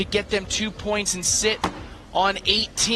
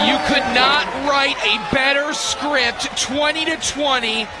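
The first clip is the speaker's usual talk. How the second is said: excited call; 5 semitones higher than usual. Real, not acted. Co-commentator hyping the tied world final, excited. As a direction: sell the drama of the tie.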